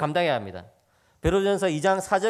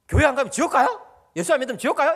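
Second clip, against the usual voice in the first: higher, louder mock indignation; imitated angry mother; 5 semitones higher, 5 dB louder than usual. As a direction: challenge them like an offended mother, retold. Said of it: "엄마가 막 화가 나가지고". (화난 엄마 흉내)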